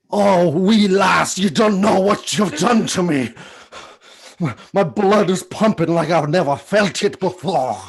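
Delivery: Sean Connery voice; Sean Connery impression. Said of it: "Uh, Sean Connery".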